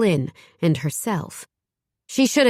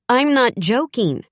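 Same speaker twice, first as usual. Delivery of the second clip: put-on higher, louder call after the boys; 7 semitones higher, 4 dB louder than usual. A narrator's reading. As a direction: call it over your shoulder, firm. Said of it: "she called as she followed".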